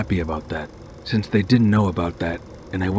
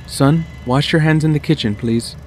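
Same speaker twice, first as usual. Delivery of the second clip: higher, louder mother voice; mom voice; 8 semitones higher, 5 dB louder than usual. Acted. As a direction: stop him like a hurried mom. Mom stops son.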